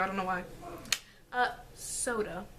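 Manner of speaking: breathy unvoiced giggle-whisper; whispered aside. Real, not acted. Vlogger joking to viewers about soda, whispered. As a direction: whisper it as a private joke.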